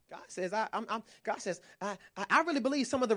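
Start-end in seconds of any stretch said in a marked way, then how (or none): 0.1-1.6 soft. Real, not acted. Preacher drops to soft voice.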